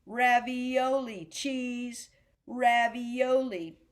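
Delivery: drawn-out, evenly spaced syllables; rhythmic demo. Shown as a demonstration. Music teacher showing students the same rhythm exercise, rhythmic demo. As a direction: stretch the food name to the beat. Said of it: "same thing with cheese".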